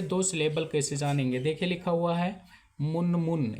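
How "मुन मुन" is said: "मुन मुन" as two distinct syllable beats; two separate beats. Shown as a demonstration. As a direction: split "मुन मुन" into two even pulses. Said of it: "दो झटके में पढ़ेंगे". ("मुन मुन" दो झटके में)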